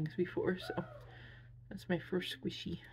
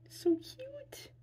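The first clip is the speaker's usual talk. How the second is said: whispered coo. Real, not acted. Cooing over the plush.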